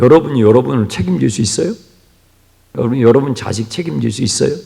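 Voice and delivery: usual speaking voice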